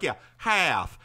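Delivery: put-on "Yeah, half." in a drawn-out Southern accent; "half" with a broad Southern vowel. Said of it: "I put on the Southern".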